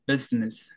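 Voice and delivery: "비즈니스" as English business, both vowels short. Shown as a demonstration. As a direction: keep "비즈니스" tight, with no long ee in the middle. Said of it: "여기도 짧고 여기도 짧습니다".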